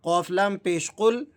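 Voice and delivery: slow, deliberate spelling out. Shown as a demonstration. Teacher spelling the word for learners, slow and deliberate. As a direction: spell it letter by letter, slowly. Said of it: "پہلے آپ اس کے ہجے سنیں".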